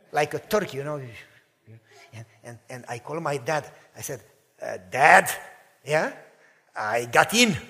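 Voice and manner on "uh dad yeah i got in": excited news. Retold or imitated. Calling dad with big news.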